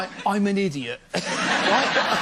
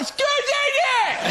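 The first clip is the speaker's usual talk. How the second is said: mock wife shouting; 12 semitones higher, slower than usual. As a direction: impersonate a wife yelling over headphones. Wife calls out over tour headphones.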